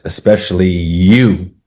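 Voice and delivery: "you" drawn out long and slow; pointed warning. Retold or imitated. Young Texan warns the walker, stretched emphasis on "you". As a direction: lean on a long, swelling "you".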